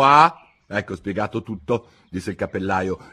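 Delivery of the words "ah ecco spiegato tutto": Hatter. Acted. Hatter voiced.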